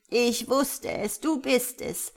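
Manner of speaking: high, slow, exultant cry; delighted. A narrator's reading. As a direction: savour the joyful discovery out loud. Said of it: "rief sie entzückt".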